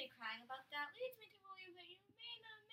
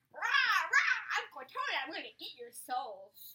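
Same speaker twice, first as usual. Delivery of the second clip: hammed-up monster impression, roars first; Cortana; 2 semitones higher, 9 dB louder than usual. Prisoner imitates the captor for cellmates, crazy villain voice. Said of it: "She speaks in a crazy voice".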